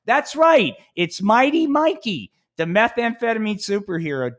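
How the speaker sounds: high, hyped trailer-announcer voice; big cartoon announcer intro; superhero announcer. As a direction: sell the hero like a cartoon promo. Announcing his superhero again.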